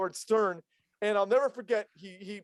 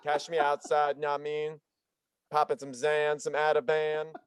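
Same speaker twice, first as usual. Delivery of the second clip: mock SoundCloud rapper; slower than usual. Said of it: "That's your name".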